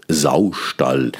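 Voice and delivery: "Saustall" breathed in a whisper with both halves stressed; flüstern; whispered word. Shown as a demonstration. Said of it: "zwei benachbarten, betonten Silben".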